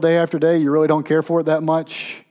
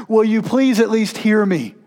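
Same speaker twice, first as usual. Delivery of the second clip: higher, louder desperate begging; a voice crying up from the depths, begging; crying-out plea; 7 semitones higher, 4 dB louder than usual. Pretend. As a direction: plead to God as if from a pit. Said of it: "they're crying out".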